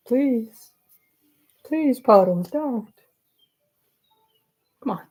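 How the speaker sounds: high-pitched begging to a pet; playful pleading. Real, not acted. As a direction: beg the cat to stay. Begging the cat to stay.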